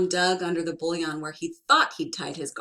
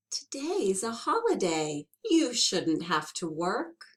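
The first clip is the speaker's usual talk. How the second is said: sweetly; 3 semitones higher than usual. Acted. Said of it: "smiled very sweetly and said".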